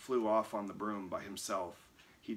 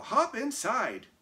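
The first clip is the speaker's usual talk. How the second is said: high witch voice; 8 dB louder, slower than usual. A narrator's reading. Ma urging Sam.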